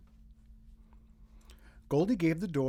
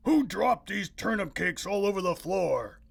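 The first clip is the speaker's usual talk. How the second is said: louder lightly voiced man; Mister Chan exclaiming; 4 semitones higher, 6 dB louder than usual. A narrator's reading. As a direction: find the mess. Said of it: "exclaimed Mister Chan".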